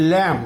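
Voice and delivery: ল্যাম ending cleanly on m; silent b. Shown as a demonstration. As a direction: say ল্যাম with no b at the end. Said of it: "এখানে কিন্তু বি এর উচ্চারণ হচ্ছে না". (ল্যাম-এর শেষে ব ছাড়া)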